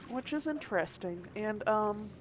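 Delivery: hiccuping while talking; hiccups. Real, not acted. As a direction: speak through small hiccups. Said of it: "I'm, I'm hiccuping a little bit now".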